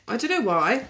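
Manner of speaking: slight Welsh lilt, rising at the end; a hint of Welsh; accidental Welsh accent. Real, not acted. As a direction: let a bit of Welsh slip in. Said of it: "That sounded a bit Welsh".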